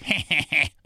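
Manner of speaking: short mimicked chuckle; put-on laugh of a prankster; imitated laugh. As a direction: imitate his gleeful laugh in passing. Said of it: "he'd be like".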